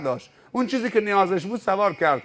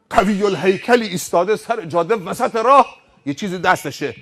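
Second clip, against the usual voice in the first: ordinary delivery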